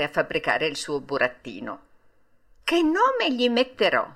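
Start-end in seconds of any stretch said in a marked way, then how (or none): 2.6-4.1 Geppetto to himself. A narrator's reading. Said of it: "disse fra sé e sé".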